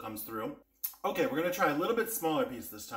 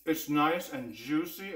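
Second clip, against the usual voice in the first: talking while chewing; mouth full; slower than usual. Real, not acted. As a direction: speak through a mouthful. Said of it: "I'm talking with my mouth full".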